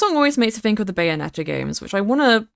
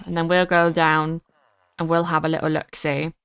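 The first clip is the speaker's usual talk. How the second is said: a light silly voice talking to the mob; a mild put-on voice for the creature, lightly done; 2 semitones lower than usual. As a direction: coo at the mob as you shove it in. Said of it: "I don't know why I'm doing that voice".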